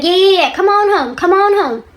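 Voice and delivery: high, loud, goading imitation of a wife; retold angry dare. Wife daring her husband to come home, acted angry.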